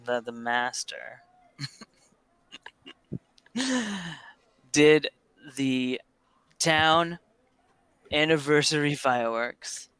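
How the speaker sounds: halting tipsy tale with long pauses; lightly voiced rambling old drinker; old storyteller. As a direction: launch grandly into an old tavern yarn, then stall. Old Flippin begins a tale.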